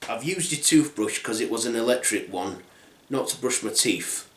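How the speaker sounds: soft, low, hesitant admission; sheepish confession. Acted. Girl admitting using the toothbrush, sheepish. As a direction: confess quietly, with awkward pauses.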